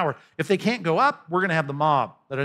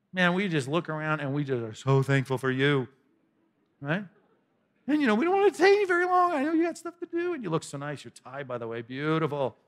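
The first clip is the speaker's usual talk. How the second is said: sarcastic flattery. Acted. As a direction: lay the compliments on thick with irony. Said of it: "I read it with enough sarcasm in my voice".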